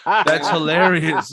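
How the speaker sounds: a comedian mocking people who say it instead of laughing; slow exasperated mimic. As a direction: spell out "That's hilarious" word by word, fed up. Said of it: "Just don't say".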